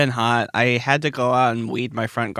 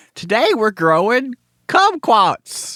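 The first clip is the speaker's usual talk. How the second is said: very high, booming, animated cartoon TV host voice; 10 semitones higher, 7 dB louder than usual. Riffing on a pretend farm tv show for kids: animated tv farmer host voice. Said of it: "like an animated farmer, like introducing their television show".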